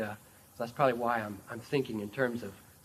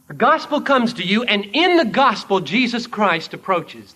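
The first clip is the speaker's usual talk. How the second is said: raised, emphatic pulpit delivery; preaching; 8 semitones higher, 13 dB louder than usual. Acted. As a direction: preach it out with conviction. Preacher building at full force.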